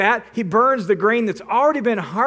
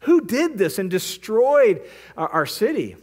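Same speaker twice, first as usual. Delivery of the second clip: aghast; 3 semitones higher than usual. Retold or imitated. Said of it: "the Philistines are just aghast".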